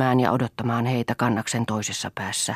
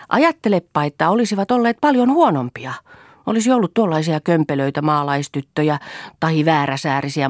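high, gleeful teasing; playful frolicking; 5 semitones higher, 6 dB louder than usual. A narrator's reading. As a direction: show off cheekily to mother. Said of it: "ilakoi Toini". (tyttö ilakoi korkealla, leikkisällä äänellä)

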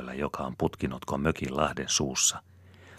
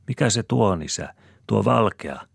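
high, loud curious question; curious child's call; 7 semitones higher, 6 dB louder than usual. A narrator's reading. Jopi calls to his father, excited and loud. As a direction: call out to father, pointing at something.

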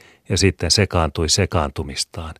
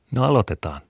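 gentle; 7 semitones higher than usual. A narrator's reading. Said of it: "sanoi äiti yhä lempeällä äänellä".

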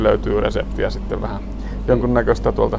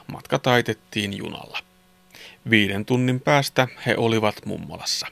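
put-on clear, measured children's story reading; story narration; 3 dB quieter than usual. A narrator's reading. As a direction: narrate a Christmas tale sentence by sentence. Reads a Christmas story. (selkeä joulusadun kerronta)

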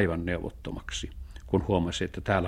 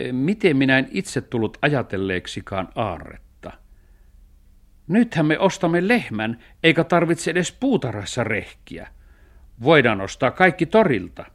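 lightly voiced cat, pitch climbing high; eager cat; 6 semitones higher, 5 dB louder than usual. Cat delights in buying a cow, eager. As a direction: get carried away as the planning cat.

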